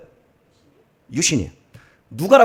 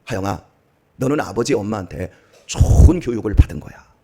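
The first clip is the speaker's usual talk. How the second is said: lower-pitched, settled fatherly counsel; retold fatherly reassurance; 7 semitones lower than usual. Father's closing word to his daughter about gratitude, calm and reassuring. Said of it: "마지막에 이런 얘기를 했어요".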